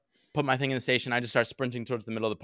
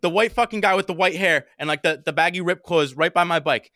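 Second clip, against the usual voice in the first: higher, louder, excited identification; urgent alert; 5 semitones higher, 4 dB louder than usual. Retold or imitated. Bike owner identifying the thief for cops, urgent retelling. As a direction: point out the culprit urgently.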